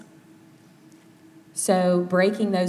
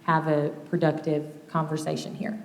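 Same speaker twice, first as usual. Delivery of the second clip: even tone; 4 dB quieter than usual. Shown as a demonstration. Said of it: "keeping an even tone and even pace".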